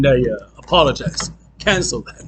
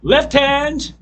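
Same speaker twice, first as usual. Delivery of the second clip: loud, high count-in for left hand; calling out; 4 semitones higher, 5 dB louder, much slower than usual. Real, not acted. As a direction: call the beat to start them. Teacher calls the next count-in.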